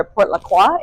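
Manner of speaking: French pronunciation of "Port La Croix"; French accent. Shown as a demonstration. Guide offering the post office's French name, French accent. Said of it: "if you're saying it in a French accent".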